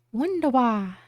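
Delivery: a hint of a German accent. Shown as a demonstration. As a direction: pronounce it the German way. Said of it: "I'm really trying to do a German accent".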